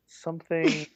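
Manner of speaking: low, slow retold deadpan line; retold movie confessional. Friend retelling a movie confessional, low and drawn out. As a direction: draw it out slowly after a long silence. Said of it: "and he goes".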